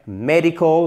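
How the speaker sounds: "Medical" stressed on the first syllable, MED-ical; model stress. Shown as a demonstration. Teacher contrasting it for learners, first-syllable stress. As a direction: hit MED in "Medical" and hold the end. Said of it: "là, c'est sur la première".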